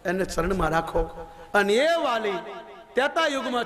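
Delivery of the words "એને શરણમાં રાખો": lower, slow humble plea; understated lowered plea; pleading father. Acted. Father Vali pleads for his son.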